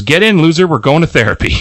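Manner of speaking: high sassy quip. Retold or imitated. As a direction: fling it out with attitude. Joke line while fleeing.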